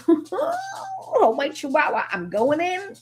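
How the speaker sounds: squeaky high laughing cry of charge; laughing mock battle cry. Joking about charging in, a high laughing cry.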